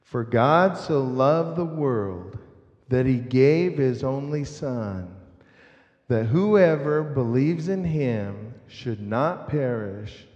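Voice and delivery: slow, evenly phrased verse for others to join; leading group recitation. Shown as a demonstration. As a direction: lead the congregation through it, unhurried. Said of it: "So say that with me".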